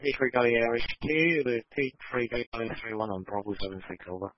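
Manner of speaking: over walkie talkie. Real, not acted. Radio dispatch call over channel.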